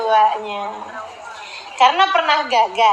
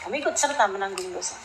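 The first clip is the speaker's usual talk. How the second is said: "Kamu ikut serta menanggung dosa" repeated much softer and quicker; quiet echo; 6 semitones lower, 9 dB quieter, faster than usual. Real, not acted. Preacher warning parents to their audience, repeated softly. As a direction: drop the voice low and murmur the warning again.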